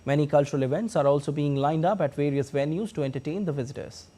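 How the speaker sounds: measured, scripted news anchor delivery; news read. Acted. Anchor introduces the festival report to viewers, formal news read.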